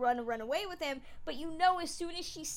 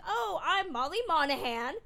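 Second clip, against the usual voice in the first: mock Irish brogue; 4 semitones higher, 6 dB louder than usual. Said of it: "turn up the ends of her sentences".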